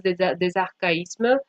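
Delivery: usual speaking voice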